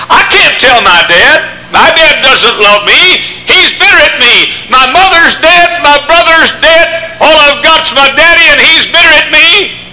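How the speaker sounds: put-on slow, high grieving girl; sad girl voice. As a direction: plead slowly like a hurt teen. Girl's lament voiced in story.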